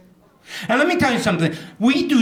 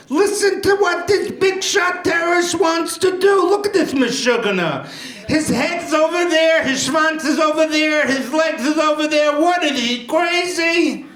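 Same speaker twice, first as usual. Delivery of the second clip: put-on old Jewish lady yelling; 8 semitones higher than usual. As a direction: shout it like a grandma scandalized at the TV. Acted old Jewish woman yelling.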